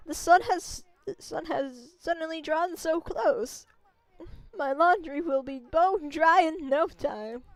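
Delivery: lightly voiced kindly village grandma; a gentle old lady warning the traveler. Old grandma greeting the wolf and its rider, lightly voiced.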